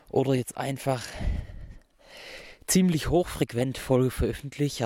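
out of breath walking uphill; puffing, short of breath, talking on a steep climb. Real, not acted. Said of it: "ich laufe gerade einen steilen Berg hoch".

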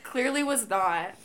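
slow, drawn-out lightly voiced storyteller; man telling the story. Friend imagining the man retelling it, slow mock storytelling. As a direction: lightly imitate someone spinning out an anecdote. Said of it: "he probably tells that story".

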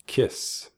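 "Kiss" with a long hissed S; snake-like final S. Shown as a demonstration. Teacher showing learners the snake sound, hissed S in "Kiss". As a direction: end "Kiss" on a voiceless snake hiss. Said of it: "ese sonido del serpiente al final".

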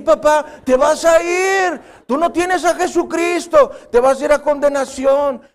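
put-on a kid earnestly warning grandpa; child warning grandpa. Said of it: "Nietecitos que van con el abuelito y le dicen".

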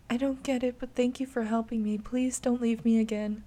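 put-on a scared child begging not to be left; frightened little girl. Voices child Anna.

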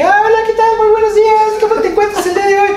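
fake high voice. Shown as a demonstration. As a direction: drop the act and squeak. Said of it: "Sí puedes fingir un poco la voz". (voz falsa muy aguda y rápida)

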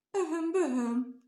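a high, slow, drawn-out shriek with a laugh in it; high, slow mock shriek. A narrator's reading. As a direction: shriek the name out in fright. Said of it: "sikoltott fel a rókáné".

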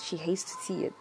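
soft unvoiced whisper; breathy hushed repeat; whispered aside. Real, not acted. Repeating the mother's view.

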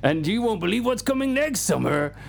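nineties trailer voiceover. Pretend. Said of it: "the style of the nineties trailer voiceover man".

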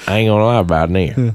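quick put-on redneck twang; mimicked redneck accent. Shown as a demonstration. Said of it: "see if I can mimic you".

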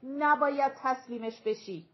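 a touch of anger, said loudly; firm, understated anger; angry warning. Acted.

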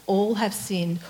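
"All" leaned on, falling tune; weight on All, plain rest; stress on ALL. Shown as a demonstration. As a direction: press the word All. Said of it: "all in two places".

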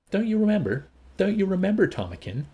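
high, urgent plea; pleading. A narrator's reading. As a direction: beg him to remember. Linda pleads to be recognised.

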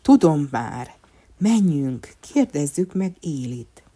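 light up with a sudden idea; hopeful. A narrator's reading. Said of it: "reményteljes hangon szólalt meg".

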